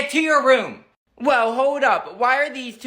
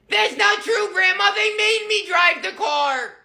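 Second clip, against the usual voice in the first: whiny little Billy; 9 semitones higher than usual. Acted. Billy protesting to Grandma, high whiny kid voice. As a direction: insist it wasn't your fault.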